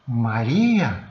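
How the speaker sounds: Jesus gently calling Maria by name at the tomb, tender. Retold or imitated. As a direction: say her name the way only a friend would. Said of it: "num tom, num toque afetivo que ela conhecia".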